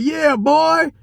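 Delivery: high, dragged-out taunting voice; mocking the other driver. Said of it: "He was like".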